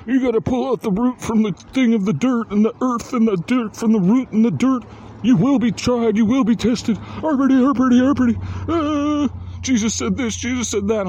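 high, loud, hammed-up preacher rant; ranting preacher impression, cranked up high; impassioned preacher. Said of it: "preacher was all".

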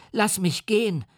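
put-on high, frightened child's cry; boy's scream. A narrator's reading. The boy screams at the monster to let him go, high and panicked. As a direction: shriek it like a terrified little boy. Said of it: "schrie er".

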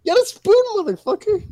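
high exasperated shout; yelling across the room. Real, not acted. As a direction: yell the order, pitch way up. Friends bickering, spoon demand.

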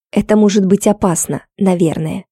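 ordinary delivery, nothing marked

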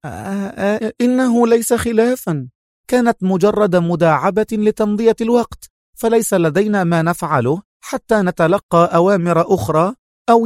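smooth it over with an embarrassed laugh; lightly voiced sheepish young woman; embarrassed smile. A narrator's reading. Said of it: "ابتسمت في حرج".

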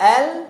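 teacher modelling tip-pressed lam. Shown as a demonstration. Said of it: "بضغط بالطرف لفوق".

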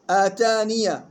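آتانية ending in open "-niya"; voweled ya in joining. Shown as a demonstration. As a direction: say آتانية as "ataniya". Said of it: "وصلا بإثبات الياء المفتوحة". (آتانية بإثبات الياء المفتوحة)

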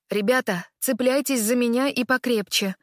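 firm, urgent call to the group; rally them to hold on tight. Acted. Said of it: "кричит Лукас".

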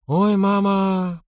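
a long dismayed oh; groaning. A narrator's reading. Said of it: "охнул Григорий". (протяжно охая, медленно)

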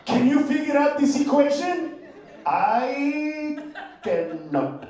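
put-on lightly accented, baffled and formal; Asian mathematician accent. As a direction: play the stumped genius, a touch stiff. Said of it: "he will look at it and go".

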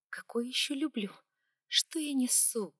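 flustered whisper. A narrator's reading. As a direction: whisper to yourself, embarrassed. Flustered inner thought.

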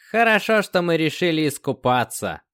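smiling. A narrator's reading. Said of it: "с улыбкой сказал белобрысый".

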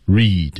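"read" with the "ee" held long; long vowel. Shown as a demonstration. Teacher shows how long vowels go, "read" held long. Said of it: "长元音就长".

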